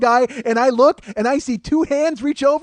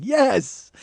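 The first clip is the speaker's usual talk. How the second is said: raised, drawn-out cheer; triumphant yes; 4 semitones higher than usual. Retold or imitated. Brothers high-fiving after success, triumphant cheer. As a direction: celebrate with a stretched "yes". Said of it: "We're just, like, triumphant".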